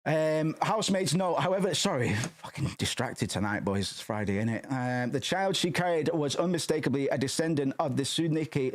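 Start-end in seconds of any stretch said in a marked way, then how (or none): 4.7-8.7 reading aloud, Tsuneki said plainly; reading the name. Shown as a demonstration. Reading a passage aloud, sounding out Tsuneki. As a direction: read Tsuneki as it's written. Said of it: "reading aloud".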